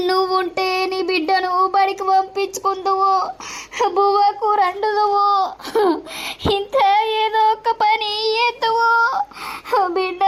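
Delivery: sung wailing lament for a dead daughter; keen over her lost child, half singing through tears; crying lament. Acted. Grandmother mourning her drowned daughter, wailing in sung lament. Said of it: "ఎందుకు ఏడ్తానవు?".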